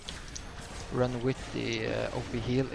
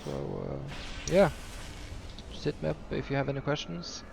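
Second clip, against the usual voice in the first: slight lisp with nasal voice. Real, not acted. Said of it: "I'm sorry about my lisp and my nasally voice".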